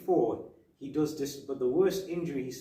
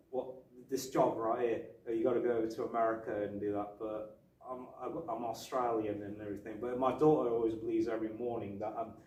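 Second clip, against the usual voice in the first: Mel Gibson; 2 semitones lower than usual. Retold or imitated. Retelling Gibson's interview, attempted Australian accent. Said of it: "I'll try and do an Australian accent".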